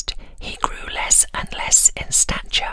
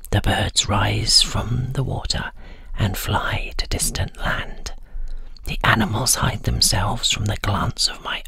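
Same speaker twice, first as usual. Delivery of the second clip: put-on old man boasting; 9 semitones lower than usual. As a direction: lower whispered voice of the old winter spirit, proud. Old man boasts of winter power.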